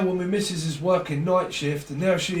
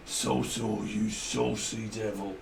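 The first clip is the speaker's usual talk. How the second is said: teasing; 7 semitones lower, 8 dB quieter than usual. Acted. Teasing voice, low and soft.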